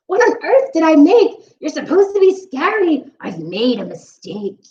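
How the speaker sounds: a hint of a shrill, annoyed witch; cross witch. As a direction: scold like a disappointed witch. Witch scolding.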